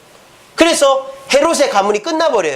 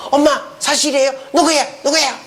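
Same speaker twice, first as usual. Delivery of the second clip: lightly acted daughter, higher voice; 살로메; 5 semitones higher than usual. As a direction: pitch up into an indignant daughter's questions. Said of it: "그래서 딸한테 가서". (살짝 높인 딸 목소리로 따져 묻듯)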